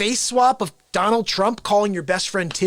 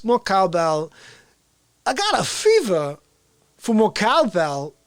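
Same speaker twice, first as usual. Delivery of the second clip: slow, deadpan Walken cadence; a hint of Walken, halting phrasing; Christopher Walken; slower than usual. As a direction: Christopher Walken cheering up the quarantine show. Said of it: "You want Christopher Walken?".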